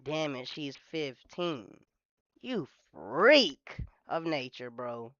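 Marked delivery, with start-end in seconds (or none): 0.0-1.7 slow, low and quiet, dragging the words; a muttered slow knowing damn it. Shown as a demonstration. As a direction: say it like a creep who is secretly glad. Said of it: "It's like a".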